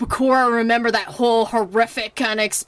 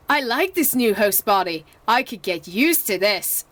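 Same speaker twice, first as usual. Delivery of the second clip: lightly voiced smug villain; a hint of a gloating villain; Bakura voice; 2 semitones lower than usual. Vlogger's second try at the villain, lightly gloating. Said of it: "Okay, that was actually better".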